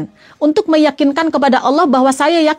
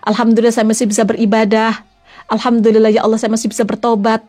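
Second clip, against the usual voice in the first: thankful prayer; 3 semitones lower than usual. Shown as a demonstration.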